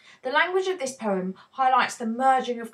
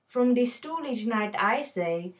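reading the poem in a put-on Indian accent; lightly voiced Indian accent, storytelling the shopkeeper's day. Teacher reading the poem to her viewers in an Indian accent. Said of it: "I'm going to have to don an Indian accent".

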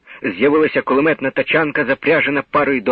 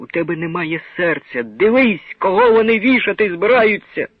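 offended rebuke; 4 semitones higher than usual. Acted. Offended wife rebukes husband.

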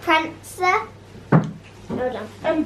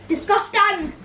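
silly put-on voice, a bit higher; 4 semitones higher, slower than usual. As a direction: ham up the word like a cartoon. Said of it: "you do it really well".

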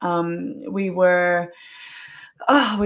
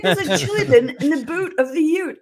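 retold excited call; 7 semitones higher, 4 dB louder than usual. Repeats her retold yelled call.

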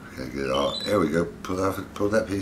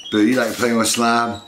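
excited; 6 semitones higher, 8 dB louder than usual. Real, not acted. Calling excitedly to pet.

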